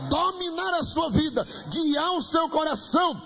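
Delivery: urgent preaching, climbing in pitch; fervent exhortation. Real, not acted. Preacher urging congregation to be filled with the Spirit, fervent exhortation.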